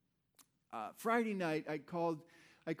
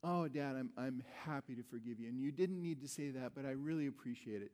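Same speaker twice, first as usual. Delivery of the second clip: soft grateful; 5 semitones lower, 5 dB quieter, faster than usual. Retold or imitated. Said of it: "And she said".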